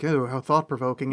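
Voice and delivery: pretentious theatre-goer murmur; snooty. Retold or imitated. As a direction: sniff it out like a snob. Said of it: "snooty and pretentious".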